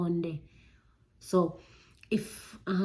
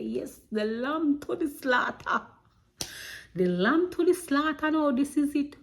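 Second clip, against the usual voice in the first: doomed resignation; 7 semitones higher, 3 dB louder than usual. Retold or imitated. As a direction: sound like you're walking to your doom. Resigned dread facing the bedroom.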